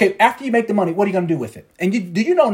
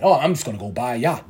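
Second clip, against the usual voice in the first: mock naive answer; 6 semitones lower than usual. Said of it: "unrealistic answers like that".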